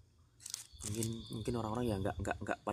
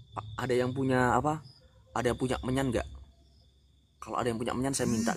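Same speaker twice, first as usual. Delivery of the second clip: calling out; 3 semitones higher, 7 dB louder than usual. Real, not acted. Calling out for incense at night.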